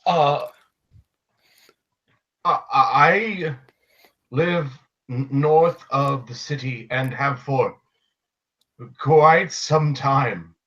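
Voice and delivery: halting, stammered explanation; hesitant. Acted. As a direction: feel for each word, stretching the last. Confused character explaining himself at bar.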